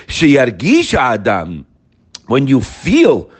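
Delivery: slow and deliberate; slow, weighty recitation. Shown as a demonstration. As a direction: draw the words out. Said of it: "you really feel it".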